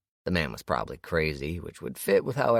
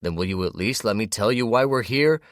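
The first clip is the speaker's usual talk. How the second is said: desperate; 7 semitones higher, 8 dB louder than usual. A narrator's reading. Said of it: "growing more desperate".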